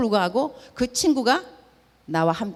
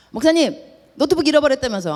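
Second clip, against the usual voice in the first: raised, louder excited caller asking; eager caller; 5 semitones higher, 4 dB louder than usual. Retold or imitated. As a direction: hurry to ask about the lost laptop. Church member phones, eager question. (잃어버린 노트북을 급하게 묻는 들뜬 교포 목소리)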